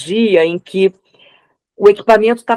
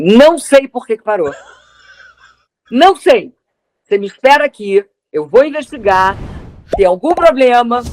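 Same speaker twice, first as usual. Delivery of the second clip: put-on lightly done Italian accent, a bit higher; 5 semitones higher than usual. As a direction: talk with a light Italian lilt. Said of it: "desse jeito italiano".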